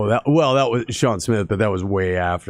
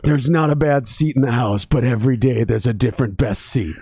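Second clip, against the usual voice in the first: a hint of a team ad read, slightly raised; mock ballpark slogan; 3 semitones higher than usual. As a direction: pitch it like a stadium commercial, tongue in cheek. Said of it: "that's a very baseball thing to say".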